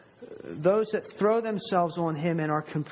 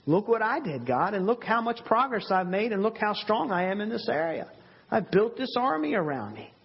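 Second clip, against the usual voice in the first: higher-pitched mock boast to God; lightly acted self-congratulation, pitched up; proud boasting; 4 semitones higher than usual. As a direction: imitate someone eagerly showing off their achievements.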